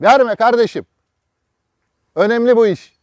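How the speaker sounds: real exasperated shout. Real, not acted. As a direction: raise your voice to make them listen. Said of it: "yine bağırıyorum".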